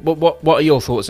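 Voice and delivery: usual speaking voice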